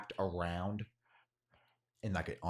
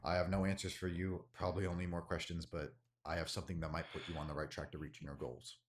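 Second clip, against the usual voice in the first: hooded stranger voice; 4 semitones lower, 5 dB quieter than usual. Acted. Voices hooded tabaxi figure.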